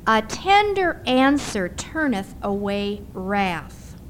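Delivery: slow, tender scripture reading. Shown as a demonstration. Pastor's wife reads the verse to her congregation, tenderly and slowly. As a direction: let each word land gently and slowly. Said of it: "the Hebrew word here for soft means tender".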